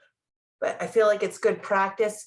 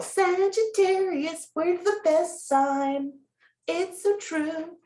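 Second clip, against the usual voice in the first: excited; 8 semitones higher, slower than usual. Real, not acted. Bragging about own star sign.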